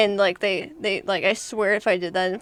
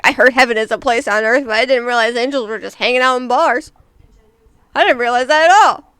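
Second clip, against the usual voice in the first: louder, pushy pickup line delivery; aggressive pickup line; 3 semitones higher, 5 dB louder than usual. Shown as a demonstration. Reading pickup lines to a friend, pushy and loud. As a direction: lean in hard on the line, louder each time. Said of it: "you get more aggressive with it".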